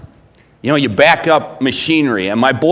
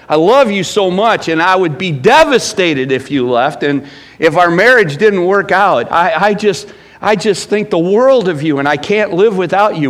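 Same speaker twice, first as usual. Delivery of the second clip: mock loving yell; 4 semitones higher, 3 dB louder than usual. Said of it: "you very rarely yell at them and say".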